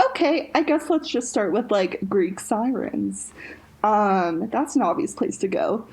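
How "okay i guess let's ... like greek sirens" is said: mock clueless self. Host mocking her own first research instinct, lightly clueless. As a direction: gently send up your own naive first idea. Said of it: "my white dumbass was like".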